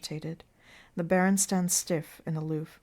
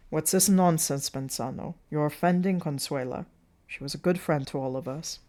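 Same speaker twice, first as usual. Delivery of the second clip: lightly voiced manager's rebuke, dropping lower; reproachful circus manager; 3 semitones lower, 4 dB louder than usual. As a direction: tell him off on her behalf. Plays Burkett scolding Manzano.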